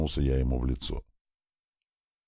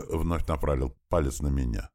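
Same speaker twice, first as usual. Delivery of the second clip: ordinary delivery, nothing marked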